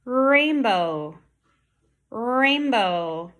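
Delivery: rainbow with a long, strong R at the start; "Rainbow" with a drawn-out opening R; good initial R. Shown as a demonstration. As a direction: hold the R before "Rainbow" opens up. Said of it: "That was a good R".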